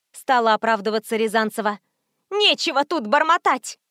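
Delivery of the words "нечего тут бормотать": shrieking. A narrator's reading. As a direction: shriek it at your mother. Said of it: "завизжала Света".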